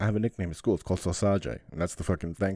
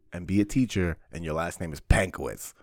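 ordinary delivery

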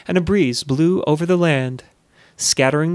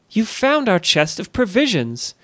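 higher, delighted cry; overjoyed exclamation; 5 semitones higher than usual. Acted. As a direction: burst out with joy at the found chest. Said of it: "exclaimed Elissa, overjoyed".

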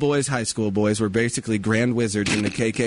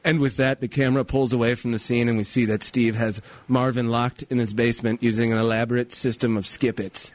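story narration. A narrator's reading. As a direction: read it like a mock after-school special.

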